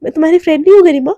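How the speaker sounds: fast, indignant challenge; angry. Acted. Priyanka demanding Garima confirm their friendship, fast and indignant. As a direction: rattle it off quickly, a touch offended. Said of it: "एकदम गुस्से में देखती है".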